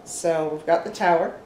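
talking through hiccups; hiccuping mid-sentence. Real, not acted. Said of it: "Excuse me for hiccuping".

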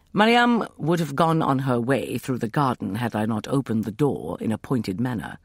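plain reading voice

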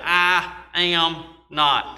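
Peter's denial, drawn out slowly. Acted. Preacher voicing Peter denying Jesus, slow. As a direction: deny it slowly, word by word.

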